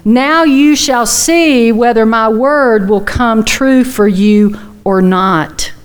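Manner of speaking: slow, measured and solemn; slow voice of God. Retold or imitated. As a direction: speak as God, unhurried and sure. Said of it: "And God says to Moses".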